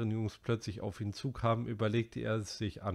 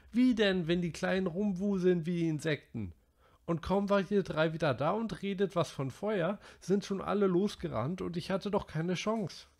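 put-on high boy's voice, worked up; Piggy scolding; 10 semitones higher than usual. A narrator's reading. Piggy berating the boys over the island fire, high and worked up. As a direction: rant at the careless boys.

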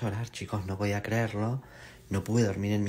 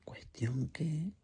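whisper; 8 semitones higher, 6 dB quieter, much slower than usual. Real, not acted.

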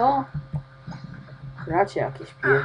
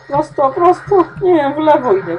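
loud, much higher hurried directions; urgent calling out; 7 semitones higher, 7 dB louder than usual. Real, not acted. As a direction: call the way in a rush. Rushing through maze. (pospieszne wołanie)

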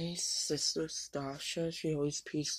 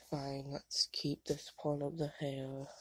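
whisper. Retold or imitated. Retelling giving in to mom.

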